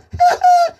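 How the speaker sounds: a high burst of laughter, amused at his own story. Real, not acted. Laughing while telling followers about snakes.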